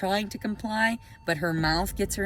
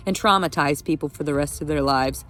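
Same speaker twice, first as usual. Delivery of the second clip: loud heated rant, voice raised and pressing; angry rant; 7 dB louder than usual. Real, not acted. Vlogger ranting at the court over her custody papers, angry and loud. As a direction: hammer every point home, furious and loud. Ranting about Southern officers.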